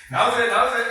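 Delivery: high, loud cheer; excited praise. Real, not acted. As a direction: cheer them on. Praising the partner.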